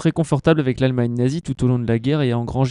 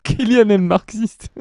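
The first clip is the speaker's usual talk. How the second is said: excited echo; 7 semitones higher, slower than usual. Pretend. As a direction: repeat it with glee. Echoes the joke higher and louder.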